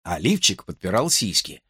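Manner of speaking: normal talking voice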